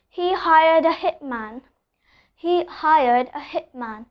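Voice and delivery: slow demo, T held back in "hitman"; "hitman" with the t swallowed before m; unreleased T. Shown as a demonstration. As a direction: stop the t in "hitman" without releasing it. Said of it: "I'm not pronouncing the letter T".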